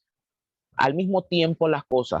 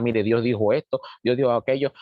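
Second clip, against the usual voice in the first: lower, composed acted delivery; calm; 4 semitones lower than usual. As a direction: relay the message calmly, pitched down. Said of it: "que usted está medio calmado". (tono calmado y más grave)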